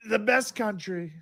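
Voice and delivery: Trump impression. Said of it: "Trump impression show".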